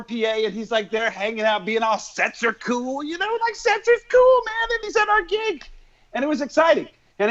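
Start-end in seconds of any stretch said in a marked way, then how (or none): 2.0-3.5 slow, laid-back cool drawl; mock cool guy. Mocking a musician's cool pose, slow and laid-back. 3.5-5.6 mock cool guy. Mocking the musician's cool swagger, pitched up high.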